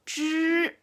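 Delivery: Zhi said high, retroflex, no puff of air; Chinese zhi. Shown as a demonstration. Teacher modelling zhi for the class. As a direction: model the curled-tongue zhi. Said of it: "La ruta de tu lengua".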